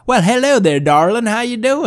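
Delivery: high, swooping, hammed-up sweet talk; mock suave boyfriend. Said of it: "And he's like".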